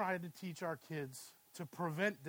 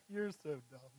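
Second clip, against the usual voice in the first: mocking kid laughing; 5 semitones lower, 5 dB quieter than usual. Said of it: "she's laughing at me like".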